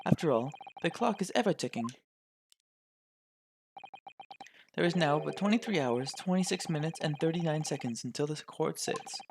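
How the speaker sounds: measured, formal authority with a lifted pitch at first; stern formal official. Acted. Lord chief justice dismisses a lawyer, stern and formal. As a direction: pronounce it like a pompous court official. Voices stern judge in game.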